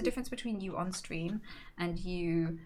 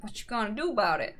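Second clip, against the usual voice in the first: put-on quick clipped South African accent; imitating a South African woman; faster than usual. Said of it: "Do the accent again".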